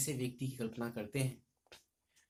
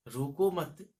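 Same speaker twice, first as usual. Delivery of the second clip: रोको मत repeated, louder but less high; firm recital; 4 semitones higher, 7 dB louder, much slower than usual. Shown as a demonstration. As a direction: echo रोको मत firmly. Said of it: "कवि कहते हैं कि".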